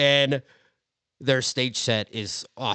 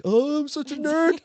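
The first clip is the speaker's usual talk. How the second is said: mock nerd voice.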